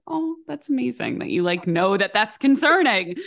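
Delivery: mock praise. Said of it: "And I was like".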